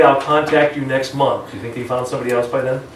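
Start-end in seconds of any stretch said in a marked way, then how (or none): 0.0-1.5 drawn-out, unhurried delivery; slow, casual brush-off. Shown as a demonstration. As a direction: let it drag like you don't care. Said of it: "if I say".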